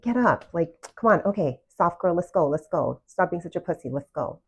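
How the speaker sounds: imitating a pushy coach barking at herself; hammed-up drill-sergeant self-talk, get up, let's go; mock tough pep talk. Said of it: "it was always me and my masculine".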